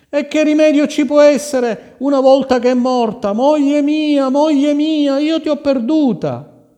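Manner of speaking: high, loud despairing wail; keen over her as lost for ever; grieving lament. Acted. King refusing comfort, wailing for his lost wife.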